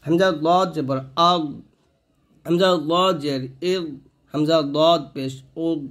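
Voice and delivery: "আগ, ইগ, উগ" held on a heavy dad without bounce; no qalqalah. Shown as a demonstration. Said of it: "তো এই ভুলটা করবেন না".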